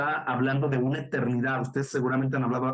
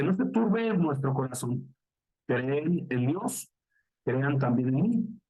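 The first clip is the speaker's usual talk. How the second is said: slow, solemn bible reading; scripture reading; much slower than usual. Acted. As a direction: read each verse slowly and with reverence. (lectura bíblica lenta y solemne)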